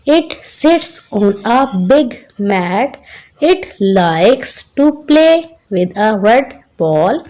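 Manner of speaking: very slow, word-by-word classroom reading; slow read-aloud. Shown as a demonstration. Teacher reading the cat passage to children, slow and measured. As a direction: read each word separately, with pauses, for young learners.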